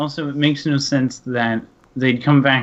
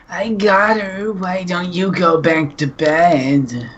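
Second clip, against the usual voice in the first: slow, drawn-out higher character voice; softly voiced wife; 4 semitones higher, slower than usual. A narrator's reading. Wife sending her husband back to bed, slow put-on voice. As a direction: stretch it out slowly, pitched up. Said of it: "she whispered".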